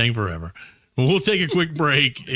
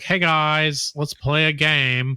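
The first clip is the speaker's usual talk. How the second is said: put-on host voice, slowing at the end; lightly performed game-host patter; radio voice; slower than usual. Shown as a demonstration. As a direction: greet listeners in a mock radio voice. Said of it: "This is my radio voice".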